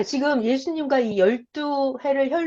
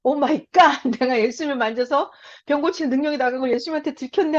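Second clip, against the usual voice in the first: startled woman panicking. Acted. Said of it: "깜짝 놀란 거예요".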